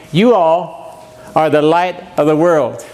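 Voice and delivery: solemn reading of the text; slow scripture recitation to the congregation. Shown as a demonstration. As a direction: read it slow and deliberate, like a verse. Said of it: "So our text tonight we just read".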